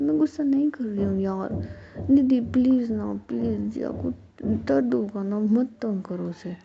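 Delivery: loud, pleading, overdramatic whine; dramatic whiny voice. Acted. Ruhi begs Nidhi to stop, in a dramatic whiny voice. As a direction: ham up the begging so it sounds theatrical. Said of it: "तुम कितनी नौटंकी आवाज़ है यार".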